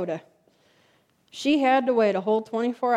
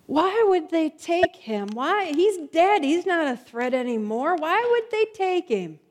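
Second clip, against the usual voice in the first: mild crying; 4 semitones higher than usual. Retold or imitated. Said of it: "crying her eyes out".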